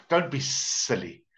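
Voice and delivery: slow, drawn-out hissy S on silly; lightly voiced wheedling snake; sly snake. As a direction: coax slowly like a storybook snake. Snake repeats it after laughter.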